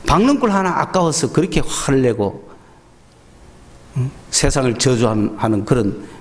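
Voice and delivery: a father gently reasoning with a sulking son; sincere rebuke. Retold or imitated. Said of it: "진실되게 이야기하죠".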